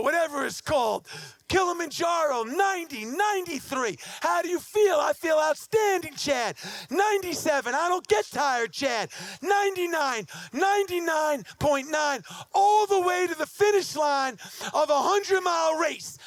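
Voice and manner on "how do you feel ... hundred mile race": triumphant. Retold or imitated. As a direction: shout it across the finish line. Finishing the race in triumph.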